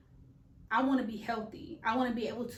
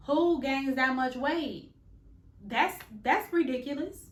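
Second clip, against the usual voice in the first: incredulous; 4 semitones higher, 5 dB louder than usual. Real, not acted. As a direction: stretch it out in disbelief. Venting about pregnancy weight gain.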